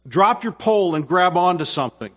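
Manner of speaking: calls it out loud over a storm; retold shout. Fisherman yelling to his son in the storm, loud urgent call.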